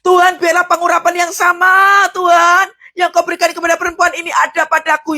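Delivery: shouted prayer climax; fervent shout. Shown as a demonstration. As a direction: cry out for the anointing. Prayer peaks in fervour.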